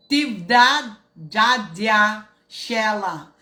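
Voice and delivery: slow, drawn-out name call; announcing name. Acted. Host greeting a foreign viewer, slow name call.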